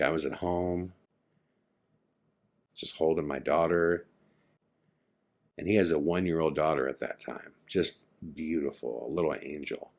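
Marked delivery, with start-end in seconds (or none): 0.0-4.1 soft, subdued retold confession; hushed recounting. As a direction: begin the nightmare quietly, with pauses. Friend recounts his nightmare, after breath.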